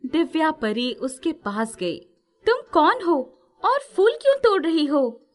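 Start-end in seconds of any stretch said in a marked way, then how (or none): 2.5-5.2 fairy's light questioning voice. Acted.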